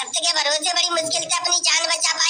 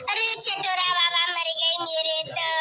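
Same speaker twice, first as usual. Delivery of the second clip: mock wailing widow. Mother-in-law wailing for lover.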